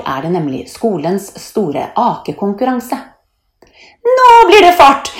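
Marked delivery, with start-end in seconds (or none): 4.1-5.1 very high, loud thrill; jubilant cheer. A narrator's reading. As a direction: cheer before a wild ride. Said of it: "jubler Leona". (jublende, høyt rop)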